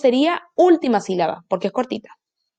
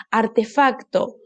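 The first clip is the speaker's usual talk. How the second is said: slow, artefacto split into syllables; sounding out syllables; slower than usual. Shown as a demonstration. Teacher splitting artefacto for children, slowly. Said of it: "nuestra última sílaba es esta".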